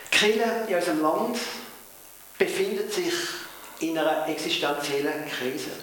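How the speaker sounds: in broad Swiss German Mundart; Swiss German dialect. Real, not acted. Pastor to congregation, first in Swiss German dialect. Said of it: "wenn ich Mundart rede".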